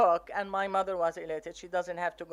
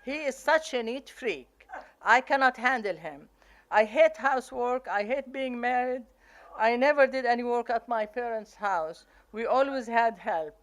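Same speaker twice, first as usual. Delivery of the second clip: retold yelling; 3 semitones higher, 5 dB louder than usual. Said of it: "she's yelling at me".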